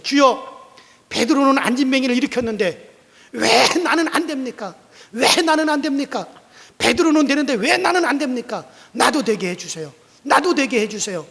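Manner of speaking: high, loud pleading prayer; earnest prayer. Acted. Pastor pleading with God in the church, loud. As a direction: beg God with all your heart. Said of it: "간절히 기도했어요".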